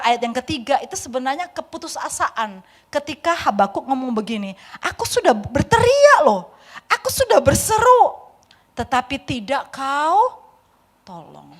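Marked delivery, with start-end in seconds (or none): 4.8-11.5 despairing tone. Acted. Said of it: "Ada nada putus asa".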